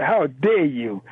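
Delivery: slow, drawn-out how dare you; each word weighed, retelling her outrage; indignant rebuke. Retold or imitated. Caller retells Sister Lola scolding Jeffries, slow indignant rebuke. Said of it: "she's a passionate sister".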